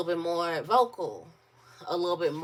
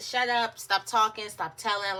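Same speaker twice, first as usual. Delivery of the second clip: put-on higher, louder harsh scolding of a child; scolding parent; 4 semitones higher, 3 dB louder than usual. Mother silencing her crying daughter, sharp scolding. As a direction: snap at the crying kid to hush.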